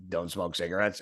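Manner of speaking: hoarse imitation of a laryngectomy ad; raspy whisper. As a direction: rasp it like a voice box ad. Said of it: "I sound like one of those fucking cancer commercials".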